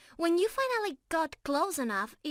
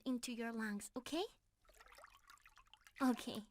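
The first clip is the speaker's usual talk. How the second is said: hushed intimate; 2 semitones lower, 8 dB quieter than usual. Real, not acted. Intimate moment before kiss.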